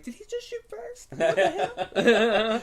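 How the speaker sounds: high shocked squeak then loud; jolted in disbelief; baffled crew. Retold or imitated. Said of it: "They're like".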